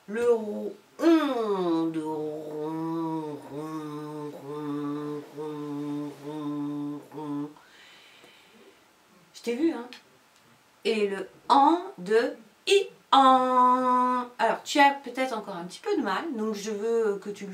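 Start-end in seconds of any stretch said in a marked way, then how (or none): 0.1-7.5 slow, low rolling ron, ron; purring cat. Shown as a demonstration. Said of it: "C'est pour ça qu'elle s'appelle". 10.8-14.3 i an stretched very slowly and louder; slow demo. Shown as a demonstration. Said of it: "demonstrating the sound".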